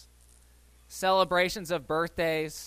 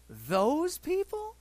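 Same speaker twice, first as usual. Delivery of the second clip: slow, high scornful Those people; disdainful; 10 semitones higher, much slower than usual. Retold or imitated. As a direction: repeat it, even more incredulous. Repeats with disdain.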